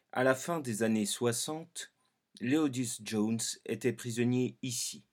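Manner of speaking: sober, measured investigative voice; social documentary narration. Shown as a demonstration. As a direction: tell it like a serious society report. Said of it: "Documentaire de société".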